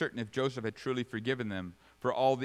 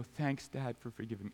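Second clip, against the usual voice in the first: put-on softly grateful child; 7 dB quieter than usual. And they go.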